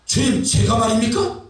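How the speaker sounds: mildly acted incredulous question; Gideon. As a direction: question the call in disbelief. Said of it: "기도원이 뭐라 그러니". (의아한 듯 되묻는 연기)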